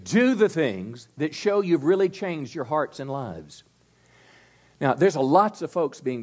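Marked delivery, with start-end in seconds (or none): 0.0-3.6 repeat after me. Shown as a demonstration. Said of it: "Can you say that with me?".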